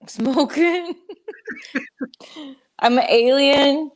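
high, loud giddy voice; giddy and laughing. Real, not acted. High after tincture, laughing.

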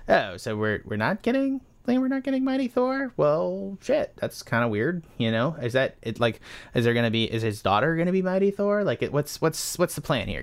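high, incredulous rant to the studio; baffled disbelief. Retold or imitated. Fan asking the studio, baffled and incredulous. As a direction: pitch up in confused disbelief. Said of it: "I'm just sitting here as like".

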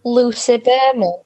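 put-on slow, drawn-out northern accent. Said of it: "Not more northern accents".

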